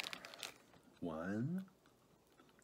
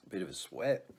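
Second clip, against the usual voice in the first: whispering. Real, not acted. Whispered aside.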